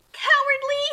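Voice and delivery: loud, high battle cry; shouted insult. Acted. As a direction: yell it as you strike. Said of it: "shouted insults in battle".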